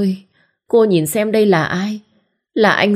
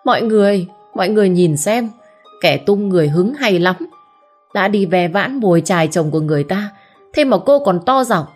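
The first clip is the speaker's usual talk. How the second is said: shouting scold; 4 semitones higher than usual. Acted. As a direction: berate her in front of the crowd. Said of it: "Sau đó quát lớn". (vợ Bút quát lớn trước đám đông)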